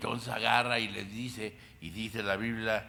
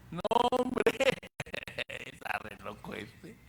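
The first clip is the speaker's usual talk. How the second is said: mocking laugh; 3 dB louder than usual. Mockers laughing at Jesus as crazy, jeering.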